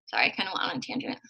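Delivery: fast, breathy whispered apology under her breath; quick whisper, half to herself; whispered aside. Real, not acted. Apologizing to Katie for rambling, in a quick whisper.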